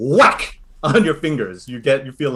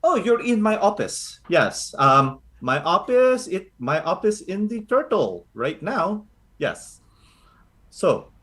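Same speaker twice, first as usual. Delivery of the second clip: lightly voiced doting Filipino grandmother; a hint of a fussing lola reassuring the party; grandma Lola Carly. Lola Carly fussing over the recruits, lightly voiced.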